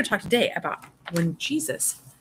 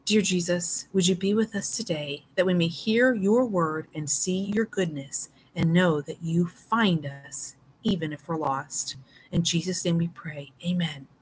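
prayer. Acted. Teacher leads class prayer.

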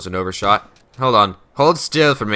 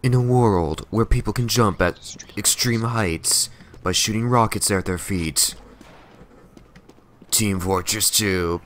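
slow, hushed trailer voice-over; movie trailer narrator; 3 dB quieter than usual. Pretend. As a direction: whisper it like a dramatic trailer. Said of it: "that's how I would imagine it started with a trailer".

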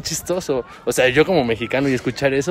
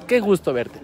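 Mexican greeting; 6 semitones higher than usual. Retold or imitated.

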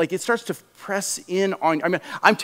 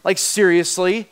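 ridiculing. Retold or imitated. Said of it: "He was not looking at Elijah going".

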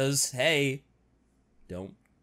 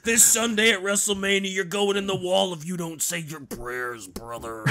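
wrestling promo. Acted. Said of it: "This has turned into a wrestling promo".

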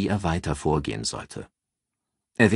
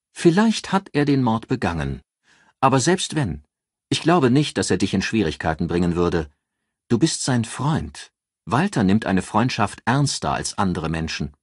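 raised voice for a calculating friend giving advice; Ann, cool strategist; 4 semitones higher than usual. Acted. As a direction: lay out the plan like a cool strategist. Ann reassuring about Walter.

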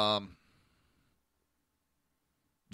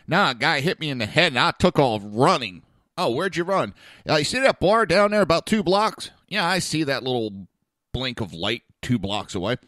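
loud and raised, rambling; loud drunk patient; 4 semitones higher, 6 dB louder than usual. Retold or imitated. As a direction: tell it like an excited drunk. Drunk patient telling story.

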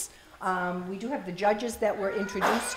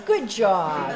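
laughing praise; 4 dB louder than usual. Real, not acted. Praising student amid laughter.

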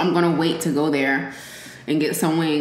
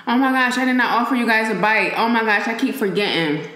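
sudden realization; 4 semitones higher, faster than usual. Real, not acted. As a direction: caught herself forgetting, rushing. Remembers she forgot viewers.

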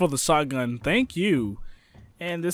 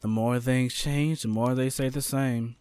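evil villain voice; 5 semitones lower, 6 dB quieter than usual. Retold or imitated. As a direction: say it like a sinister schemer. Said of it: "more like a evil person's voice".

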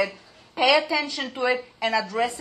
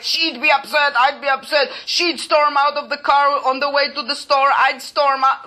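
escalating back-and-forth; 3 semitones higher, 3 dB louder than usual. Pretend. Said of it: "would have gone like this for hours".

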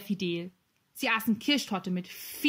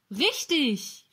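higher-pitched cry of sudden recall; exclamation of recognition; 5 semitones higher than usual. A narrator's reading. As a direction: call it out as it dawns on you. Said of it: "rief der Herr". (freudig erinnernd ausgerufen)

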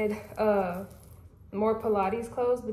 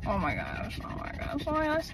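excited gushing; 6 dB quieter than usual. Real, not acted. Shoes arrived at doorstep.

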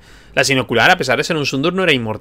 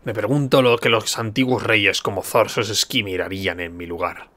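brooding warrior leader; 2 semitones lower, slower than usual. Acted. Hakon asks what old kings would do, brooding warrior leader. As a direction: wonder aloud slowly, sinking away. Voices Hakon in game dialogue.

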